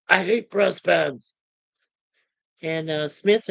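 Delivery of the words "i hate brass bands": slow, emphatic quoted grumble. Retold or imitated. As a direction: lightly imitate a tough guy. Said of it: "B A says".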